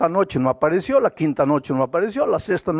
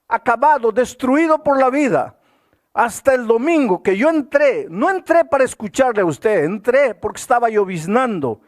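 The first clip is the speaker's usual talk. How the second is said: put-on raised, impassioned voice of the broken drunk confessing; pleading confession; 4 semitones higher than usual. Pastor voicing the repentant drunk telling his story, raised and pleading. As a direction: pour out his ruined life as the man himself.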